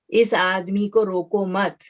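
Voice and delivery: slow "روکو مت", halting right after "مت"; pause after مت. Shown as a demonstration. Teacher shows students where waqf falls, stopping after "مت". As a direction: keep "روکو مت" together, then stop for breath. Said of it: "ہم رک جاتے ہیں، وقف کر لیتے ہیں".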